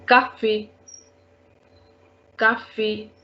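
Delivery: "Cafe" said ka-fay; accented E sound. Shown as a demonstration. Teacher giving an accent aigu example, "Cafe" as ka-fay. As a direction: end "Cafe" on a clear ay. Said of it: "A sound".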